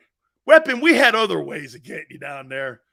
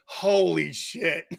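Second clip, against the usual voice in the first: slow, drawn-out amazement; mock astonishment; 2 semitones lower, slower than usual. Coach reacting to the recruit's blunt answer, astonished. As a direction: stretch both words in disbelief.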